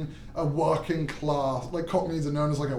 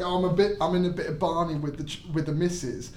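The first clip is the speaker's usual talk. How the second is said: 1 Cockney accent. Shown as a demonstration. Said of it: "So you say, like".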